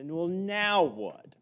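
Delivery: impatient parent. Retold or imitated. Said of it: "after many requests and say".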